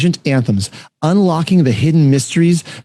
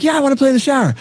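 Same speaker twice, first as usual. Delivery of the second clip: put-on little girl; 10 semitones higher, faster than usual. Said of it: "And she's like".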